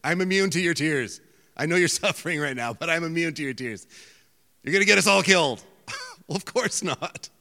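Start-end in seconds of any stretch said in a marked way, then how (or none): 0.0-3.8 a louder, higher, sarcastic take on a cold God; mock the line as if God were saying it. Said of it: "he's up in heaven saying". 4.6-5.6 a fast, loud, high hammed-up yell; mock panicked shout. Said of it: "he's up in heaven saying".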